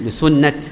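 لسنة ending in an unvowelled t; pausal t. Shown as a demonstration. Teacher repeating the majority's stop, لسنة ending in t. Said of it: "تقف عليها بالتاء".

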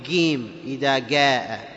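"جيم" and "جاء" said giim, gaa; jim as g. Shown as a demonstration. Teacher shows what not to say, g in "جاء". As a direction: harden the j of "جاء" to g. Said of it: "ما تقول".

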